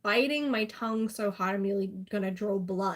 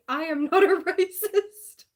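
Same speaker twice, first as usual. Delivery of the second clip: put-on drunk protest; 8 semitones higher, 7 dB louder than usual. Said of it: "I was having a drunk conversation".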